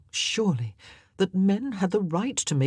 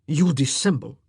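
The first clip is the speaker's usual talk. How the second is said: growled; 5 dB louder than usual. A narrator's reading. King accusing the queen, growled loud. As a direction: growl it at her. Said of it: "he growled".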